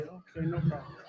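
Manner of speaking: soft, chuckling sarcastic okay; laughing mock reply. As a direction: laugh through the fake calm answer. Preacher voices himself calling captain.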